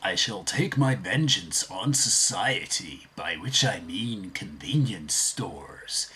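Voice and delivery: slow, grand cartoon villain declaring vengeance; lightly voiced pompous supervillain, drawn out; villain impression. Shown as a demonstration. Vlogger demos impressions, slow pompous villain voice. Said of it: "easy for me to do impressions".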